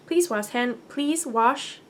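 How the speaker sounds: words stumbled out of order; misread. Real, not acted. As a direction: trip over the instructions mid-read. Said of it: "we'll start over".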